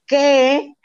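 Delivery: shocked high loud what. Retold or imitated. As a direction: blurt it out in disbelief. Parent shocked at daughter's plan.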